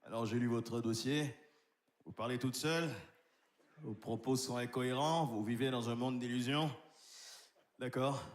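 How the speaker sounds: low, cold contemptuous doctor; a hint of a deep, disdainful doctor; arrogant doctor House. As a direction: sneer as the nasty TV doctor. Plays doctor House character.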